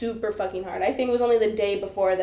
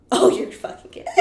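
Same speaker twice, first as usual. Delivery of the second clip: urgent disbelieving whisper; whisper yelling. Retold or imitated. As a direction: whisper it, trying not to wake anyone. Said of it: "we're whisper yelling at each other".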